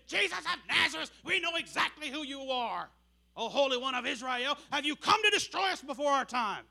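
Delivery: a hint of a possessed man crying out; mild mock demonic cry. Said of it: "screaming out in a voice that wasn't his own".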